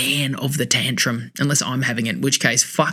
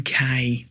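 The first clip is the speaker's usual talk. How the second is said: "Okay" with a long, breath-filled first vowel; drawn-out okay. Retold or imitated. Acting out a friend's phonetically typed text, drawn-out okay. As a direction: stretch out the O of "Okay". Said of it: "lots of, lots of H's".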